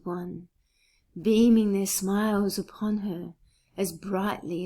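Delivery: measured, lyrical recital with deliberate pauses; composed verse reading, phrases falling away at the ends; poetry reading. Acted. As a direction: read it as a poem, lingering on closing words. Reads own poem aloud.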